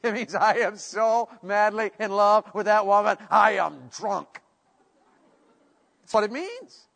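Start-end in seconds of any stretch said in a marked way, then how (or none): 0.3-4.4 intoxicated with love. Acted. Preacher acting a husband madly in love with that woman, besotted. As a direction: savor each word, love-drunk. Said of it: "literally means be intoxicated".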